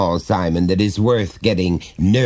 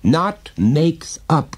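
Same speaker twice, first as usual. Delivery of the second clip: put-on boy crying out; 10 semitones higher, 3 dB louder, much slower than usual. A narrator's reading. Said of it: "cried the boy".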